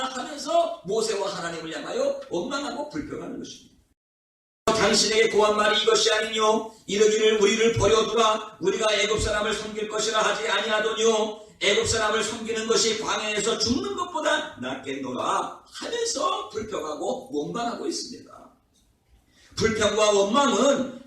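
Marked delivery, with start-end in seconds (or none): 4.6-15.6 level, sustained recitation of a verse; scripture reading. Real, not acted. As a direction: read the verse aloud in a steady, formal monotone. Reads scripture verse aloud. (성경 구절을 일정한 음조로 낭독하듯)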